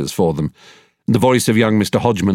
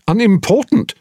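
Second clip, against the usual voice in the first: a raised, disbelieving echo of the word; incredulous aside; 11 semitones higher than usual. A narrator's reading. Solicitor reading a will, stunned by the word. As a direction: toss it off as a quick aside, astonished. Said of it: "in an incredulous aside".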